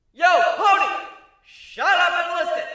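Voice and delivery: high, loud, bossy yell; rowdy shout. Acted. Captain yelling at the crowd to shut up, loud and high. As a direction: cut through the noise.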